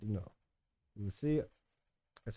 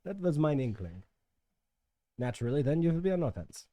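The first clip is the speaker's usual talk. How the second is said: put-on German accent; 3 semitones higher than usual. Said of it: "talk in a German accent".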